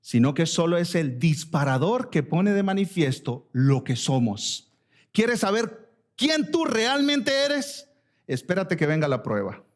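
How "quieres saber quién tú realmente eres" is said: drawn out, high and searching; preacher's slow high challenge; slow high question. Acted. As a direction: ask it slowly, lifting high.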